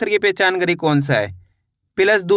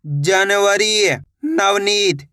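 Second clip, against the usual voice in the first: slow blending; much slower than usual. Shown as a demonstration. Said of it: "blending letters slowly for pupils".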